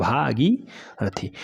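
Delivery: भागीरथी drawn out very slowly and softly; slow dictation. Shown as a demonstration. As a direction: say it slowly so they can write it. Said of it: "slow dictation". (भागीरथी धीरे-धीरे)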